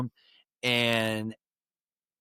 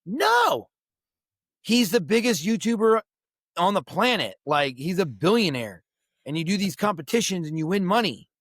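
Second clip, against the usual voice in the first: much higher, eager rush of news; excited explaining; 5 semitones higher than usual. Retold or imitated. Family telling the father who Mister Beast is, in an excited higher voice. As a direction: gush the news at him.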